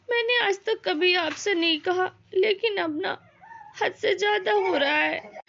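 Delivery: a touch of tears while complaining; wife half-crying to her husband; mild crying. Acted. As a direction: speak through light sobs to the husband. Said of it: "पहले रोना बंद करो".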